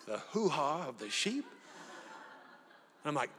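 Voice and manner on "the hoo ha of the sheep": incredulous question through a laugh; can't believe what he's eating; laughing disbelief. Retold or imitated. Guest repeating what the host served, laughing disbelief. Host names the sheep organ.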